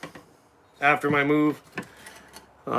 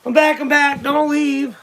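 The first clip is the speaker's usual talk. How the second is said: calling out; 9 semitones higher, slower than usual. Real, not acted. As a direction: call out to keep them watching. Calling out returning to stream.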